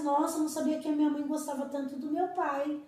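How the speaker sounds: put-on delighted child's exclamation; delighted surprise. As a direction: gush like a kid discovering something sweet. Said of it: "você fala assim".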